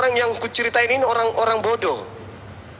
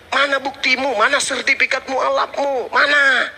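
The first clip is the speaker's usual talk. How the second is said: angry demand; 6 semitones higher than usual. Real, not acted. Demanding proof in angry rant.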